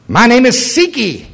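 lightly hammed-up mocking demon. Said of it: "and it goes".

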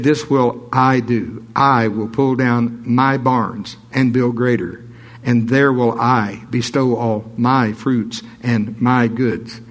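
slow, leaning on every "I" and "my"; slow read punching "I" and "my"; stress on I and my. Shown as a demonstration. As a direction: hammer the "I" and "my" words slowly. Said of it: "I always emphasize the I's and the me's here".

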